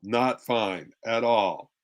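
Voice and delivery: slow, low, loaded not fine; a hint of a sulking partner, low and slow. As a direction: let the tone say it's anything but fine. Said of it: "The tone is saying".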